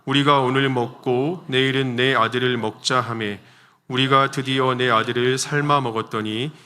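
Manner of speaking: slow, measured congregational Bible reading; scripture reading aloud. Real, not acted. Preacher leads congregation reading the verse together, slow measured recitation. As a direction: read the verse out slowly and evenly for all to follow. 같이 한번 읽어보도록 하겠습니다.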